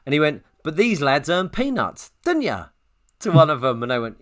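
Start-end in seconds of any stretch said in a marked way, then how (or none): 0.6-2.7 attempted Welsh accent. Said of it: "I'm trying to do Welsh".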